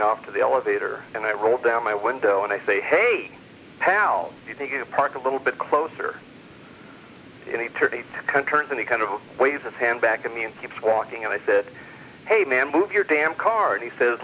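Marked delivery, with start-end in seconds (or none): 2.8-6.2 raised, mock-polite call to the driver; sarcastic call-out. Storyteller to rude parker, a raised mock-polite jab. Yelling at man who parked close. 12.3-13.7 higher, slow, forceful retold yell; angry demand. Storyteller retelling shouting at the driver, slow angry demand.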